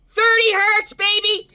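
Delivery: cheering the number like a win; triumphant cheer. Real, not acted. Celebrating the thirty hertz score.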